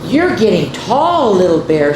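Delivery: loud, proud papa bear; fatherly bear. Acted. Daddy Bear praises his cub, loudly proud. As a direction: praise him like a big proud dad. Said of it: "said Daddy".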